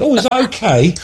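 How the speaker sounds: high-pitched imitation of a sweet, polite guest; lightly mimicked polite surprise. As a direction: retell it sweetly, pitched well up. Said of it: "And you were really sweet".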